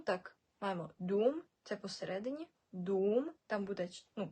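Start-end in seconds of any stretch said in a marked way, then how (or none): 1.0-1.4 дум with the vowel drawn out, "duuum"; long u. Shown as a demonstration. Teacher giving an example, дум with long vowel. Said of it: "у з кружком". 2.7-3.3 дум stretched to "duuum", rising; long u. Shown as a demonstration. Teacher repeating the example, дум with long "u". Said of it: "у з кружком".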